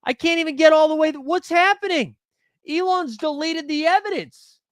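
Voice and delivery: very high-pitched conspiracy alarm; mock panic. Streamer claiming Elon deleted his evidence, high mock panic. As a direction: squeal it in pretend outrage and panic.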